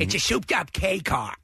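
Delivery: lightly put-on stage diva voice; Carol Channing. Co-host as the star bragging about her car, light impression. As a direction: mildly imitate an aging Broadway entertainer boasting. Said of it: "Carol Channing in the Fast and Furious".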